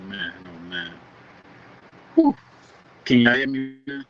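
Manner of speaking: choppy breaking-up call audio; underwater. Real, not acted. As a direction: voice cutting in and out on the line. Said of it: "You still sound like you underwater".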